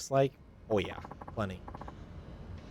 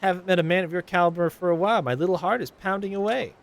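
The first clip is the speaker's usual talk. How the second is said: higher, gushing flirt; flirty passenger; 8 semitones higher, 5 dB louder than usual. Acted. Flirty passenger gushing at taxi driver Takun, higher voice. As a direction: coo at the driver like you're smitten.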